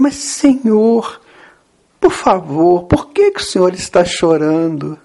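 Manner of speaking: insistent, lightly acted plea; Pedro. Pedro asks Jesus again after no answer, insistent plea. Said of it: "Então Pedro de novo".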